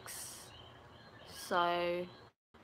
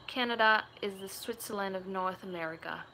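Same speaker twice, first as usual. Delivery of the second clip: lightly put-on Australian accent; Aussie accent. Shown as a demonstration. Streamer reading a chat comment, Aussie accent. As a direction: read it out with an Australian twang. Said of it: "That was, like, an Aussie accent".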